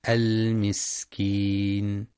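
المسكين with a long breathy hissing س; slow recitation of المسكين; whispery hissing seen. Shown as a demonstration. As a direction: stretch the س in المسكين into a breathy hiss, slowly. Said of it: "صفة الهمس والصفير في السين".

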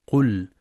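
"قل" closed on a firm still lam; vowelless lam. Shown as a demonstration. Teacher stressing the rule, "قل" with still lam. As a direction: end "قل" on l with no vowel after it. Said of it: "التأكيد على سكون اللام".

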